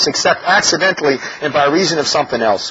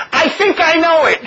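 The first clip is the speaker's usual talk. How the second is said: mock pseudo-intellectual, higher and slow; smug know-it-all; 9 semitones higher than usual. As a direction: lightly ham up a know-it-all who thinks he gets it. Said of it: "when he goes".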